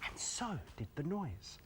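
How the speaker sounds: soft whispered awe; hushed whisper. Acted. Storyteller hushing as the rain stops, whispered.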